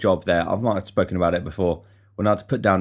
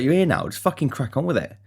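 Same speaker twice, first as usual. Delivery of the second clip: higher exasperated insistence; exasperated push; 6 semitones higher than usual. Retold or imitated. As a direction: tell a mate to toughen up. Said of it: "I was like".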